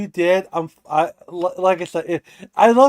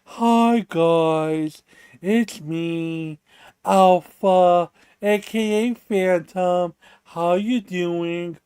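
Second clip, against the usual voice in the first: mopey Eeyore; much slower than usual. Retold or imitated. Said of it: "He Eeyores the fucking content".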